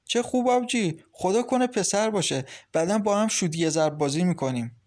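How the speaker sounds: put-on a young brother cheering on his sister; excited boy. Boy Milad cheering sister news.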